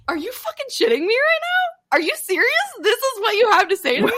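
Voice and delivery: high, loud disbelieving squeal; are you serious, high and loud; incredulous outburst. Retold or imitated. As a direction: shriek it in laughing disbelief. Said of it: "And I was like".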